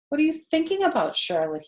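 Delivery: lightly voiced young pig; piping curious question; high pig voice. Wilbur asks, pitched up.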